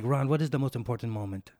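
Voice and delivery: poorly imitated Chinese-Jamaican accent; amateur attempt at a Chinese-Jamaican accent; bad Chinese-Jamaican accent. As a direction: imitate his odd mixed accent, badly. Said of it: "what my brain thinks he sounds like".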